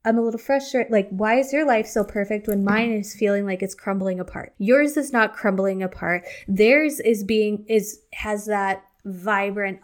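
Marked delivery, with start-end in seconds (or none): 0.0-4.5 frustrated. Retold or imitated. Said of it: "you can feel kinda like".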